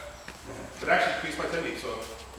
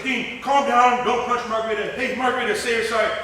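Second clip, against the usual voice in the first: calm the fighter down; coach calming him; 6 semitones higher, 7 dB louder than usual. Retold or imitated. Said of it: "He goes".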